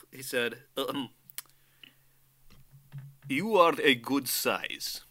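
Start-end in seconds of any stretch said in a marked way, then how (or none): 3.3-5.0 whispered quote. Retold or imitated. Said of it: "in his Russian accent".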